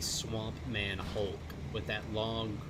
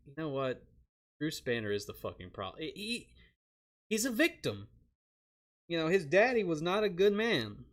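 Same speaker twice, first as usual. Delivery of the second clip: hammed-up pleading for poor Bruce; mock defensive rant; 6 semitones higher than usual. Defending Bruce to Hulk in a high, mock-earnest voice.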